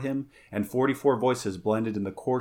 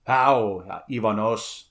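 challenging; 4 dB louder, slower than usual. Acted. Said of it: "he challenged".

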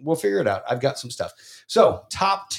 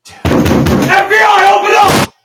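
booming raid shout, much higher; grave federal agent; 13 dB louder, slower than usual. Pretend. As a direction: pound the door and yell it. Mock FBI raid yell.

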